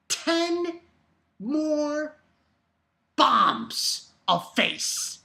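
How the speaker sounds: high, very slow shocked emphasis; stunned. Real, not acted. Reader stunned by the page, high and slow. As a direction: drag it out in shock.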